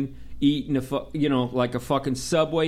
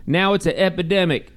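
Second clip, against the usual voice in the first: high, louder dismissive radio dispatcher; 5 semitones higher, 4 dB louder than usual. Retold or imitated. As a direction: play the clueless dispatcher on the radio. Dispatcher misunderstands over radio.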